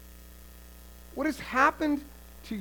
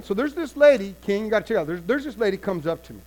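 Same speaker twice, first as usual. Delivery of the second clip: mother pleading to king; 4 dB louder than usual. Acted.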